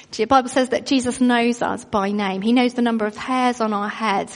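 normal talking voice

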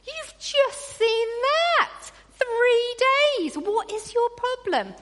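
high, loud, incredulous rant at the Israelites; a congregation fed up with the Israelites, exasperated; exasperated outburst. Retold or imitated. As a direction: huff it out like you can't believe them. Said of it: "we're all thinking".

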